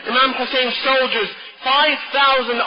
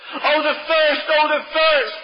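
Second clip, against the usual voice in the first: put-on children crying; 5 semitones higher, slower than usual. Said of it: "he could hear the children crying".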